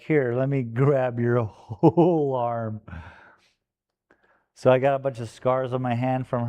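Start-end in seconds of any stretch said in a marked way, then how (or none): 0.0-2.8 voicing the puppy. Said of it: "You're just like".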